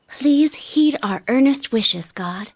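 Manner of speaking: slow, hushed prayer to the gods; earnest prayer. Real, not acted. At the shrine, praying to God with her date, slow earnest prayer. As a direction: pray it slowly, hands together.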